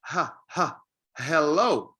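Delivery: "ha" and "hello" with an audible breathed H; sounded H. Shown as a demonstration. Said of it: "The H sound sounds like".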